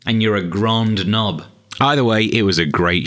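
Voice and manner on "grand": GRAND said as French, nasal vowel; "grand" Frenchified to mock the pretentious; mock French pronunciation. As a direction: say "grand" with an affected French accent. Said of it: "they say French words in the accent".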